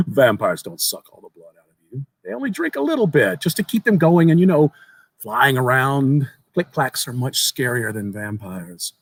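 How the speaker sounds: lightly voiced young boy. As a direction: tell it like an eager child sharing a secret. Boy corrects narrator.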